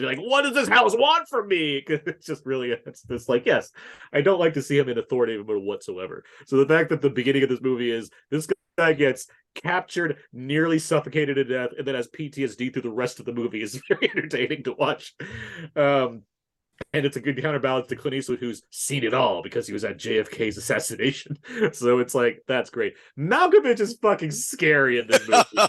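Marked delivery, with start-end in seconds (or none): 0.2-1.8 loud, high-pitched put-on scream. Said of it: "just screaming into mirrors".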